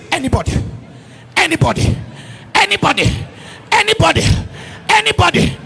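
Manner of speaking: ANYBODY repeated, rising in pitch and force; building repetition. Real, not acted. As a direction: separate each ANYBODY, climbing step by step. Repeats word, building each time.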